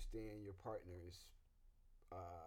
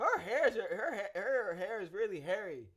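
put-on child voice; 8 semitones higher, 11 dB louder than usual. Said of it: "they say stuff like that".

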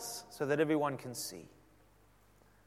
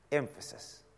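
quiet repeat; 2 semitones lower, 7 dB quieter than usual. Real, not acted. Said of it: "He awaits emphasis".

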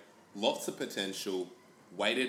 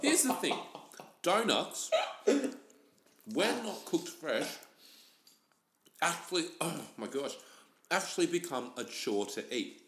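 high, drawn-out mock critic voice; pompous pronouncement, stretched out; mock serious critic; 6 semitones higher, slower than usual. Host reviewing donuts in a high pompous voice.

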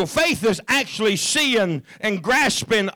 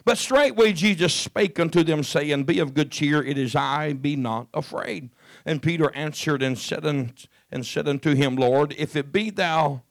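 scripture reading; 3 semitones lower than usual. Acted. Preacher reading the gospel to his congregation, measured and low. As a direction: read the passage to the church steadily.

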